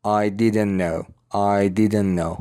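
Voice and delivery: "didn't know" joined as "diden-no", unhurried; linked words. Shown as a demonstration. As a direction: drop the t and share one n in "didn't know". («didn't know» پیوسته و بدون تی)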